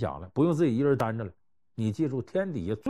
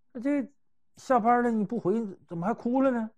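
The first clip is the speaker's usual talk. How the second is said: concerned colleague; 8 semitones higher than usual. Retold or imitated. Coworker asks why she cries.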